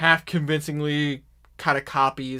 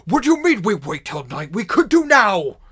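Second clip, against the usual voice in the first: high, loud impatient orc shout; 7 semitones higher, 11 dB louder than usual. Acted. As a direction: demand it now like an impatient orc. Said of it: "some others are like".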